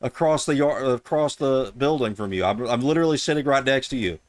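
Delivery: put-on loud, high, deliberately terrible Indian accent; mock Indian accent, pitched high and loud; bad Indian accent. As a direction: ham up a fake Indian call-centre voice for the scammer. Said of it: "put on the worst Indian accent".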